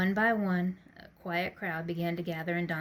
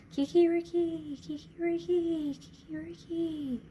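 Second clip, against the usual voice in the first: high rooster crows that die away; rooster crowing, fading; 11 semitones higher than usual. Acted. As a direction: rooster call fading down the streets. Rooster song echoes.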